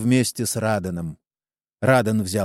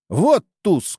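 higher, a bit louder shout; 8 semitones higher, 3 dB louder than usual. A narrator's reading. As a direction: slap the card and yell it. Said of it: "крикнул один из угадывающих".

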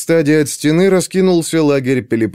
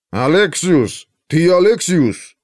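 put-on slow nasal drone with Scythian accent; nasal guard droning a name; nerd voice; 4 semitones higher, slower than usual. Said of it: "бубнил гнусавый голос с резким скифским акцентом". (гнусавый голос со скифским акцентом)

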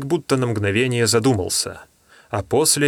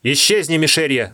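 curt dismissal; 5 semitones higher, 4 dB louder than usual. Acted. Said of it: "отрезал Гольга".

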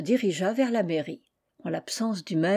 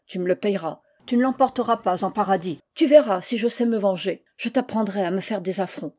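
threatening bride; 3 dB louder than usual. Acted. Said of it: "lui répétait sur tous les tons".

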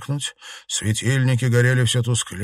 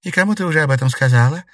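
urgent question; 7 semitones higher, 7 dB louder, much faster than usual. A narrator's reading. Sharp question to ghost.

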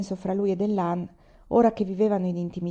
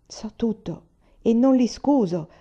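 higher, slow and emphatic; energetic; 4 semitones higher, 3 dB louder, slower than usual. A narrator's reading. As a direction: state it firmly, with force. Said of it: "rispose con energia".

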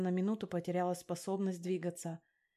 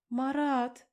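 high, loud alarmed call; loud startled call; alarmed exclamation; 5 semitones higher, 5 dB louder than usual. A narrator's reading. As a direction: cry out his name in alarm. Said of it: "воскликнула я".

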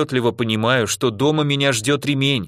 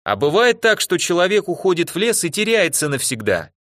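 higher-pitched call, mildly raised voice; 7 semitones higher than usual. A narrator's reading. Narrator calling to Dimka through the window, calling out. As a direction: call to a friend outside. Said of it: "крикнул привычно ожидающему нас Димке".

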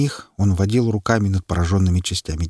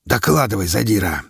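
relieved, easing command on "задира"; "задира" let out with relief, falling gently; captain relieved to see the officer alive; relieved order. A narrator's reading. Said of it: "с явным облегчением приказал".

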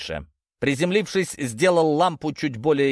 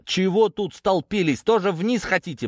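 higher-pitched, mildly indignant questioning; grumpy grumbling; 7 semitones higher than usual. A narrator's reading. Narrator scolds onlookers crowding by the hole, mildly grumpy. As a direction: challenge the onlookers with a touch of annoyance. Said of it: "буркнул я".

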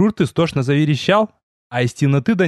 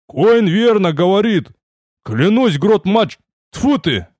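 exasperated outburst; 7 semitones higher, slower than usual. Acted. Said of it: "в сердцах сплюнул здоровяк".

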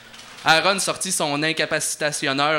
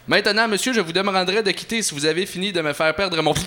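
a stiff, higher clerk's voice; snooty clerk; 4 semitones higher, faster than usual. Acted. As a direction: play the prim official brushing him off.

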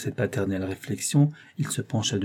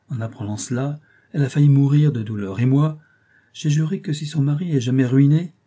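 indignant gossiping lady; 3 semitones higher than usual. Acted. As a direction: gossip with mounting outrage.

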